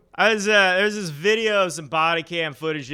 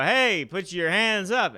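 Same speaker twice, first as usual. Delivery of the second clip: raised pitch, drawn-out retold command; mock police shout; 5 semitones higher, slower than usual. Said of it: "they shouted the homeless guy".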